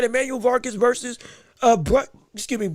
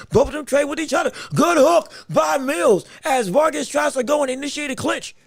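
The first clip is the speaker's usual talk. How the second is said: excited; 3 semitones higher than usual. Real, not acted. Fighters trade, excited call.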